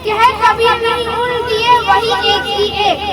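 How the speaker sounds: quick, sing-song couplet recital; poem recitation. Acted. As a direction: rattle off the verse briskly. Recites a Hindi doha.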